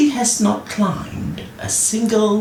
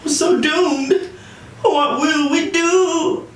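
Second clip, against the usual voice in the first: mock doom, drawn out at the end; despairing men; 9 semitones higher than usual. A narrator's reading. King's men wailing over stuck horse, hammed-up despair. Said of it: "the men said grimly".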